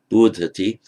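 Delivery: bodhati with weight on BO; stress on first syllable of bodhati. Shown as a demonstration. Teacher comparing with bud, first-syllable stress on bodhati. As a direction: lean on the "bo" of bodhati. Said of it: "as in bud".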